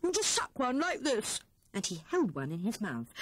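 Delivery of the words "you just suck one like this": high, eager Hare voice; bubbling over with his find; excited. A narrator's reading. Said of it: "said he excitedly".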